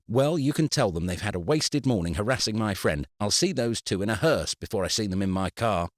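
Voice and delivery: sharp, heated threat; angry, defiant retort; angry outburst. Acted. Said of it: "His outburst".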